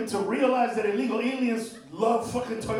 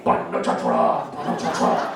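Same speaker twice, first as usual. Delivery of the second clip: much lower, slow Decepticon growl; villain robot voice; 4 dB louder than usual. Pretend. Comic naming the Transformers villain, deep and slow. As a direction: drop deep like Megatron.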